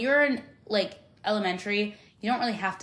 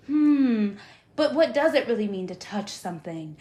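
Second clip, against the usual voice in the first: pondering philosopher; 3 dB louder than usual. Pretend. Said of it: "and I'm just like".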